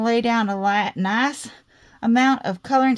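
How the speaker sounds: Southern US twang slipping in; southern accent. Real, not acted. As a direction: let a Southern US accent slip out. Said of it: "Sorry about that southern accent".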